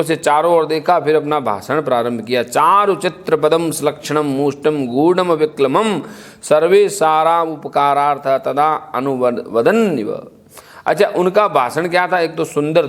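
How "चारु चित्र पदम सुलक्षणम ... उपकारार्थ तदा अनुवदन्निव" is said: measured Sanskrit chant, slowing at the end; shloka recitation. Acted. Storyteller recites the king's verse in chant. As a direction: intone the verse like scripture.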